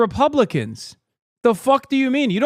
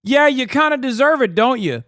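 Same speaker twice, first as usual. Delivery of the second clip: mock cruel reply; 8 semitones higher, 4 dB louder than usual. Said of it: "which is the worst, which is".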